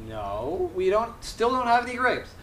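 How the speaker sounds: lightly acted weary refusal rising in pitch; exasperated bartender. Bartender to a pestering duck, mock exasperated.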